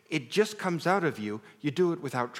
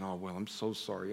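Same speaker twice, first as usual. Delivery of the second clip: soft, low retold comfort; hushed, lower-pitched sympathy; soothing father; 7 semitones lower, 8 dB quieter than usual. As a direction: gently console a scared child. Father comforting his frightened son.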